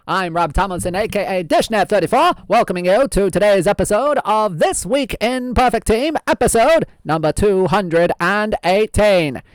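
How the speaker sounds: lightly voiced old-time radio host; old-fashioned announcer voice; old-timey voice. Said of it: "keep up this old-timey voice".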